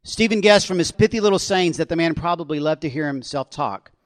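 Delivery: ordinary delivery, nothing marked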